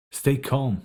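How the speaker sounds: high urgent screech of "Stay calm". A narrator's reading. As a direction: screech it over your shoulder in a hurry. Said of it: "he screeches".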